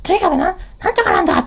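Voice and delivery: imitating mum flaring up like a volcano; mother's outburst. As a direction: explode like a short-tempered mother. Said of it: "うちの母も激すると".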